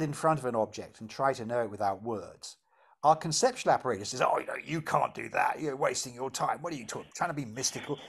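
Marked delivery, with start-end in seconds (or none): 4.2-8.0 low, dismissive doubter's grumble; critical doubt voice. Acted. Inner apparatus dismisses the attempt to know without words, critical and doubting. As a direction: play the sceptical inner critic, softer and lower. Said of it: "all this critical doubt voice comes up".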